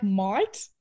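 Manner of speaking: put-on "mate" said like "might" in a country accent; teammate's country-accented "might"; country drawl imitation. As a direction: mimic a country person saying mate as "might". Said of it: "like a really country person".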